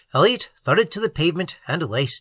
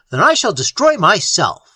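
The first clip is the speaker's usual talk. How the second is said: despairing; 3 semitones higher, 5 dB louder than usual. Acted. Despairing man.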